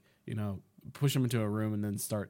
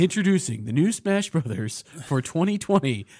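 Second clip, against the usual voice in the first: louder mock announcer, lightly hammed-up; mock trailer announcer; 4 semitones higher, 5 dB louder than usual. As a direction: announce it like a hyped game trailer.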